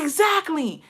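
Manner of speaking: high, drawn-out vindicated exclamation; retold emphatic agreement. Daughter agreeing with dad on the phone, emphatically vindicated.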